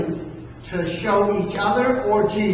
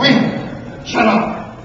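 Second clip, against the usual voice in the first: authoritative command; 4 dB louder, much slower than usual. Acted. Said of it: "calmly, strongly, forcefully, authoritatively".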